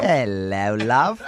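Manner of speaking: low-pitched, hammed-up British come-on; mock British suitor. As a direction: flirt in a badly faked British accent. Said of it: "kept getting closer, going".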